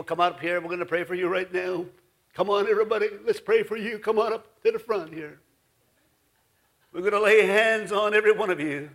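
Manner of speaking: mock spiritual preacher call; a hint of a revival preacher; preachy pastor voice. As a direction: lightly imitate a pastor calling people forward. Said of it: "they sound, you know, like spiritual".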